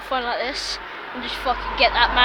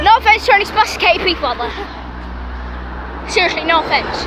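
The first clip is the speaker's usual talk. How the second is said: calling out; 5 semitones higher, 4 dB louder than usual. Real, not acted. Calls out apology to the public.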